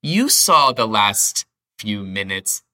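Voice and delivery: you saw the last few minutes, drawn out slowly; teacher stressing the phrase slowly; emphatic, slow. Shown as a demonstration. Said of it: "Again, for emphasis".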